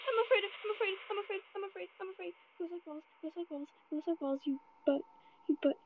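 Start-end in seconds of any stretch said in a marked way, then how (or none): 0.1-3.8 mocking singsong. Mocking himself after taunting.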